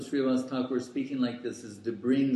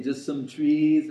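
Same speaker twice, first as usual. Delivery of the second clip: higher, louder, slow mocking scorn; scornful dismissal; 4 semitones higher, 7 dB louder than usual. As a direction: drag it out as if the trees were worthless. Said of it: "You say".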